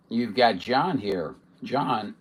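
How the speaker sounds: hoarse, voice giving out. Real, not acted. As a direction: speak through a hoarse, failing voice. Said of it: "losing my voice".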